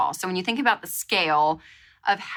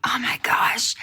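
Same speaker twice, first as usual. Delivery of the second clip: whispered oh my gosh; 3 semitones higher than usual. Retold or imitated. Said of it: "I was like".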